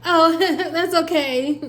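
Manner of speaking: high, slow, forced chuckling politeness; put-on polite giggle; irritated fake laugh. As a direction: laugh it off while secretly irritated. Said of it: "Instantly irritated".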